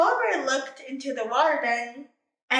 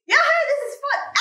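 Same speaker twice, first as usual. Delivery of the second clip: gleeful yahoo; 13 semitones higher, 7 dB louder than usual. Acted. Panda playing in trees.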